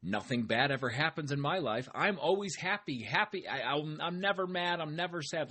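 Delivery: high, sing-song fake cheer; mock toxic positivity. Mocking toxic positivity to podcast listeners, hammed-up fake cheer. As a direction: gush like nothing could ever go wrong. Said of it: "toxic positivity where you say".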